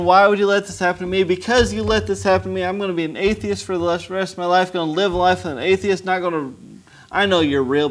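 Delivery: a retold furious plea to the Lord; angry prayer. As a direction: shout your grievance up at God. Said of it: "I was mad at our Lord".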